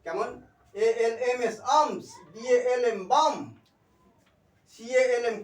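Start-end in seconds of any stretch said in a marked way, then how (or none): 1.8-2.1 আর্মস with the L left silent. Shown as a demonstration. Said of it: "উচ্চারণ করা হবে না". 3.1-3.3 বাম with no L before the M; silent L. Shown as a demonstration. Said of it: "উচ্চারণ করা হবে না".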